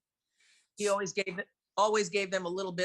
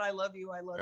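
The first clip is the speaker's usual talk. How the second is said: mock saintly; 5 dB quieter, faster than usual. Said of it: "like a saint".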